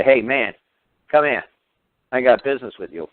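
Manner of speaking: calling out. Retold or imitated. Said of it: "I can call a man out".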